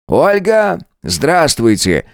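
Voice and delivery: slow, friendly hello; warm greeting. A narrator's reading. Husband warmly greeting Olga on the phone, kindly. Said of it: "тепло поприветствовал он её".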